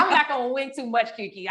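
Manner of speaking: laughing through the words. Real, not acted. Admitting she won't win much, with a real laugh in her voice. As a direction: let a laugh break into it. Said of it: "laughs while saying it".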